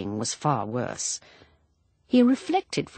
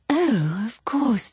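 breathy half-whisper into the phone; 8 semitones higher, slower than usual. Acted. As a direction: keep it hushed, a secret call.

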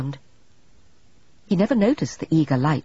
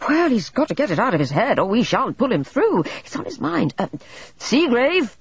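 loud, commanding and higher; bullying doctor; 8 semitones higher, 4 dB louder than usual. A narrator's reading. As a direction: bark out the name to rouse him. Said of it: "in that bullying manner".

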